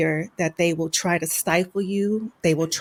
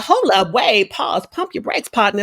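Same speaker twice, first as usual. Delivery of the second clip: sassy brush-off. Retold or imitated. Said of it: "She's like".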